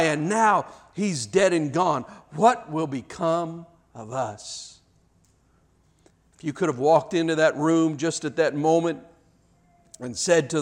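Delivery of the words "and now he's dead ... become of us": sinking despair. Acted. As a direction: lament fading into slow, softer hopelessness. Disciples despair after rabbi's death.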